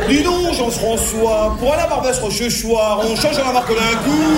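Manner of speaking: caricatured Parisian chitchat; mock Parisian accent. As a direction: put on a pouty Paris accent with puckered lips. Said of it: "cul de poule ... pour dire Rochechouart".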